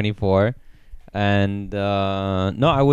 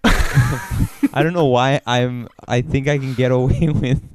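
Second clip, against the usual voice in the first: laughing; slower than usual. Real, not acted. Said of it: "laughing at own bit".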